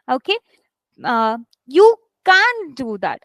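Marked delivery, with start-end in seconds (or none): 1.7-3.2 slow, with "can't" punched; stress on CAN'T. Shown as a demonstration. Teacher demonstrating negative auxiliaries, "can't" stressed. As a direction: hit CAN'T hard after a held "you". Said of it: "I'll be stressed on can't".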